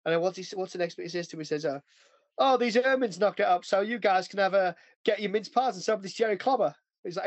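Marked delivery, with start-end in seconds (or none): 2.4-6.7 lightly imitated Cockney soldier, pitched higher; mock Cockney. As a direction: retell it in rough-and-ready Cockney. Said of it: "butchering American and fucking Cockney".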